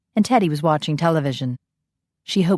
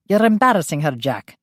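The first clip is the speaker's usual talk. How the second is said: put-on Scottish accent. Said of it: "with a Scottish accent".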